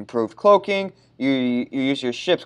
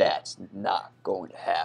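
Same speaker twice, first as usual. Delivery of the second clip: raspy, mid-range character voice; 6 semitones lower, 9 dB quieter than usual. Answering an in-game message in a Master Chief voice. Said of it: "It was alright".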